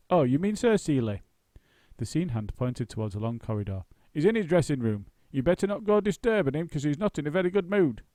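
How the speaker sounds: stagehand voice. Acted. Scene hand voiced, louder higher.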